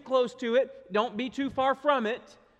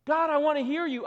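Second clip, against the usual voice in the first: quick, higher-pitched mock pleading; acted plea; 5 semitones higher, faster than usual. Believer asking God to speak, mock pleading. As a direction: voice an eager believer calling on God.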